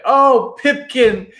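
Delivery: high, loud joyful cry; shout of triumph. Acted. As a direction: shout his name in triumph. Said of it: "a ragged shout of triumph".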